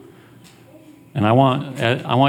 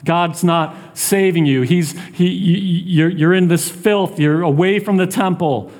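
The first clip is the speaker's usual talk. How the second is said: mildly mocking, raised-pitch jeer; insistent taunt, understated; 5 semitones higher than usual. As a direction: needle him as his accusers would. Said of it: "He's being taunted".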